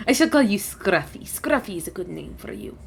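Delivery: lightly voiced dragon, pondering with long pauses; dragon, pleased. Dragon names the visitors, mildly pleased and deliberate. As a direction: bestow each name as a stately dragon.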